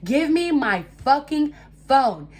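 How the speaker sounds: high, loud, angry re-enactment; retold screaming demand. Speaker demanding the stolen phone back, re-enacted screaming. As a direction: re-enact yelling at someone to hand it over. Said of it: "I literally start screaming".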